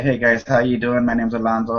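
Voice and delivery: flat, lifeless greeting; dull, low-energy hello; boring. Shown as a demonstration. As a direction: say it like a bored stick. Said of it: "I look boring, like a stick".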